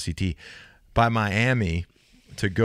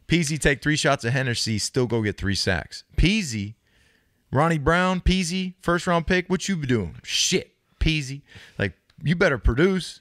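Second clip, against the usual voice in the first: hype-man pregame boast, pitched up; hyped third person; 6 semitones higher than usual. Retold or imitated. Joey hyping the team before the game, boastful. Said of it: "calling people out before the game".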